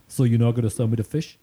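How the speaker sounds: imitated Jersey customer, questioning; Jersey accent. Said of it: "give my best Jersey accent".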